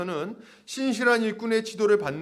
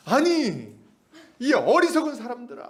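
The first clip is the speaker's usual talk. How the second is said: raised-pitch preacher's scolding; mock-indignant reproach; acted angry rebuke; 5 semitones higher, 3 dB louder than usual. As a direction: scold them as an exasperated apostle. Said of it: "이렇게 막 화내면서 하진 않았어요".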